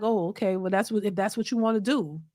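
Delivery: low, soft, unbothered reply; mild resigned acceptance. Retold or imitated. Man answering a woman who is leaving, quiet acceptance. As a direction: imitate a man quietly letting it go. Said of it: "most men will be like".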